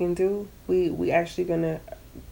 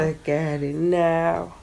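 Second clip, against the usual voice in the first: raspy voice; 2 semitones lower, 3 dB quieter, slower than usual. Real, not acted. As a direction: rasp it out slowly. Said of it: "You got the T-Boz voice going on now".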